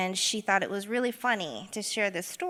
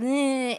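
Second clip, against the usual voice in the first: short louder mocking "eh"; imitated taunting noise; 4 semitones higher, 5 dB louder than usual. Son's friend taunting him in his face, mocking noise. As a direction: mimic a taunt, pitched up. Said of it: "and sort of".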